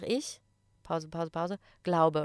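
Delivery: "Ich", a spoken gap, then separate "glaube"; demonstrated pause. Shown as a demonstration. Teacher coaching students, "Ich" and "glaube" separated by pauses. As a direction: split "Ich" cleanly from "glaube". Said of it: "Macht einfach eine kleine Pause".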